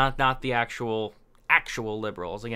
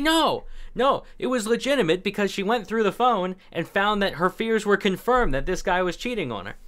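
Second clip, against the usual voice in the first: indignant insistence; 5 semitones higher than usual. Retold or imitated. Onlookers defending the girlfriend, high indignant insistence.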